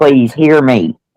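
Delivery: earnest, pleading, begging voice. Retelling how Jen sounds on a recording: imitating Jen pleading. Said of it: "you can hear it in her voice pleading".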